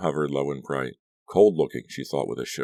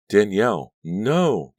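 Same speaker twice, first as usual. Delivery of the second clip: high, loud frightened cry; panicked cry; 6 semitones higher, 7 dB louder, slower than usual. A narrator's reading. Danielle cries out as the van flips, panicked and loud. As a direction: cry out in terror. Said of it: "Danielle cried".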